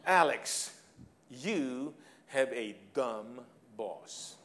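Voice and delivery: a hint of the expat boss, slow and drawn out; deadpan boss admitting fault, slowly; boss's line. Boss telling Alex in office, lightly voiced slow boss. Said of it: "and he goes like this".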